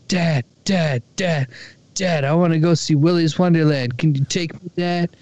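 lightly voiced pleading son; excited begging kid. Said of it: "He's like".

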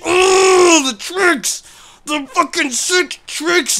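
high, loud hype over sick tricks; excited yell. Real, not acted. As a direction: yell it out, thrilled by the stunt. Hyped over stunt in game.

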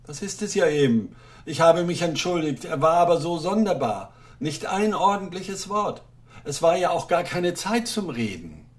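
nervous little official begging; timid clerk. Acted. Clerk complains to wife.

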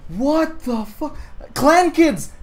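high-pitched disbelief; incredulous outburst. Real, not acted. Gamer showing friends absurd clan names, incredulous. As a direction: cry out at a ridiculous discovery. Baffled at rival players' names.

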